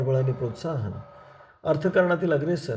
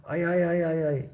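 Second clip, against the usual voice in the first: mild cry of pain; 3 semitones higher, slower than usual. A narrator's reading. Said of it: "म्हणून शिवलिंग ओरडला".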